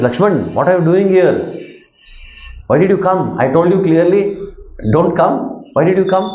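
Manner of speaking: lightly acted rebuke of a disobedient brother; angry older brother. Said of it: "because Ram was also angry".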